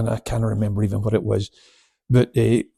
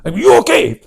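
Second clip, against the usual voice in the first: concerned question; 11 semitones higher, 7 dB louder than usual. Retold or imitated.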